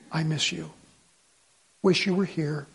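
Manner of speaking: low, soft and tender; quiet, low words to a loved one; tender longing. Retold or imitated. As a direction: say it softly, missing her. Retold phone call to his wife.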